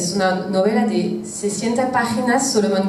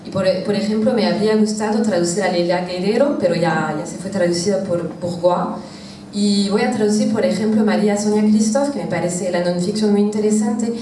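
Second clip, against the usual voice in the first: French accent Spanish. Real, not acted. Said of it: "perdón por mi español porque no es perfecto".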